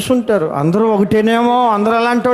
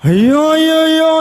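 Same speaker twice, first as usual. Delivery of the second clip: shocked lament; 7 semitones higher than usual. Retold or imitated. Pastor hears of suicide.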